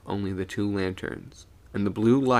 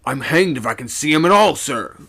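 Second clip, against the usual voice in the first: loud raised call; 5 semitones higher, 8 dB louder than usual. A narrator's reading. Second mate calling from his side of the mast. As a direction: call it across, easing on the last word. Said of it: "the second mate called out".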